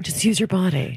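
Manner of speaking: airy, breathy delivery. Repeating a line after being asked to get breathy: breathy voice. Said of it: "get really breathy in there".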